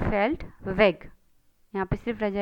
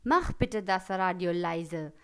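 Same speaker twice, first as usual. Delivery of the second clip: angry command; 3 semitones lower, much slower than usual. Shown as a demonstration. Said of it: "गुस्से में कैसे बोलेंगे".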